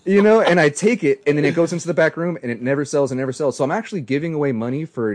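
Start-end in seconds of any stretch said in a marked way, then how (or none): 0.0-2.4 emphatic rant. Real, not acted. Builds to the punchline.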